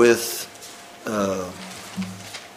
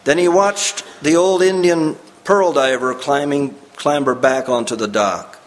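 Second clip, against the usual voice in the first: story narration; 3 semitones higher, faster than usual. Acted. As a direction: read the story like a preacher drawing listeners in. Reads the story aloud.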